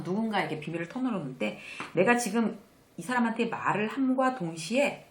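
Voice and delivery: normal talking voice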